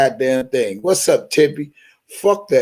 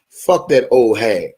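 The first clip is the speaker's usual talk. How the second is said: low, mocking quote of a rival; lightly voiced rival's retort; quoting Tyson; 6 semitones lower than usual. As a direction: spit it out like the rival streamer. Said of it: "this is D J Tyson response".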